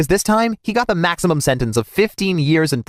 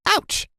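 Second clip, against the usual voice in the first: narrated scream; 3 dB quieter than usual. A narrator's reading. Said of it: "she screamed".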